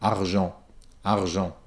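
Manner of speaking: argent with a soft R rolled at the back of the tongue; rolled French R. Shown as a demonstration. Teacher repeats the rolled R in argent. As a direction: roll the R in argent low and soft. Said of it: "I can roll it at the back of my tongue".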